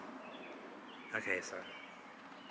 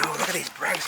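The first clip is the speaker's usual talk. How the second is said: mock-eager gasp at the bricks, higher and louder; excited self-imitation; 5 semitones higher, 6 dB louder than usual. Host imitating himself finding bricks, mock excited. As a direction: replay your own giddy find. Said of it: "I'm getting all excited".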